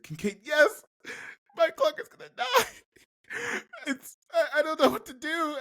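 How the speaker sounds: high, laughing panic; hysterical breakdown. Acted. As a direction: crack into a hysterical high wail. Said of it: "a hysterical breakdown".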